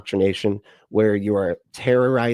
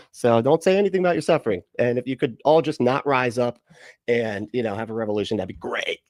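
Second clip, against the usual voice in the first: mock sermon; 3 semitones higher than usual. Mocking lords placating the poor.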